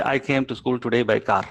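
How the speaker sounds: lightly Malayalam-accented English. Shown as a demonstration. English teacher shows how a Malayalam child says it, Malayalam accent. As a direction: say it the typical Malayalam way. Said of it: "typical Malayalam way".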